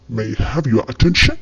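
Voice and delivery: very slow, each word laid out for learners; slow teaching demo. Shown as a demonstration. Teacher modelling an English phrase for Malayalam learners, very slow. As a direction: spell the phrase out slowly so students can copy it. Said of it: "നമ്മൾ ഇംഗ്ലീഷിൽ പറയുന്നതാണ്".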